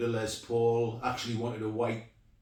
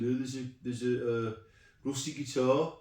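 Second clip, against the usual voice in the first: put-on light Birmingham accent, higher and rising; Brummie accent; 3 semitones higher than usual. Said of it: "in his inimitable Brummie accent".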